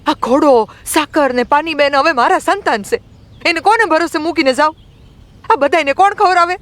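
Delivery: put-on very high, indignant girl's voice; acted angry young girl taking on the elders; angry outburst. A narrator's reading. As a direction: pour out indignant questions in a high pitch. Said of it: "Rambai ગુસ્સામાં બોલવા લાગી".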